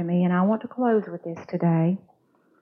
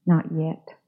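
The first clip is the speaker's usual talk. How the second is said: calm master; 3 semitones lower than usual. Acted. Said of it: "he only smiled and said".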